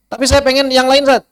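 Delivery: a hint of a student's high voice, objecting; lightly voiced pupil protesting; suara murid protes. Murid meminta. (suara murid yang sedikit tinggi, membantah)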